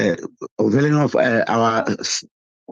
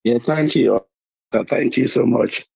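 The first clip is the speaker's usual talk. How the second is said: husky, worn-out voice from a cold; hoarse voice. Real, not acted. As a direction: speak through a lost voice. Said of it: "I lost my voice".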